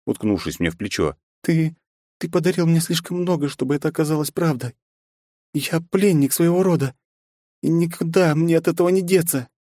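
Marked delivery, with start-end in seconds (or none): 1.4-9.5 put-on high young woman's voice, lightly mournful; the princess lamenting her fate to Ichiro, high and mournful; princess's voice.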